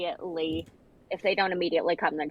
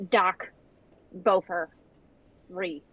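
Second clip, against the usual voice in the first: angry orc voice; slower than usual. Acted. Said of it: "yell in angry orc voice".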